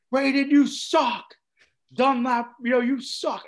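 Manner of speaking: loud, high, slow jeering yell; mock heckling shout from the stands; crowd heckle. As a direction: jeer at the players like a hostile crowd.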